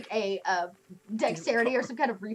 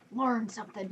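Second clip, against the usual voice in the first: put-on grumpy old man; 3 semitones lower, 7 dB quieter than usual. Old man muttering back at the smug orc. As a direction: grumble then square up. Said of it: "you hear him go".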